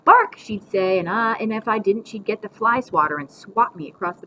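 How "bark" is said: loud, high one-word order; commanding. A narrator's reading. Grandma making the boy do puppy tricks, commanding. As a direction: call it out as a dog command. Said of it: "she made me do puppy tricks".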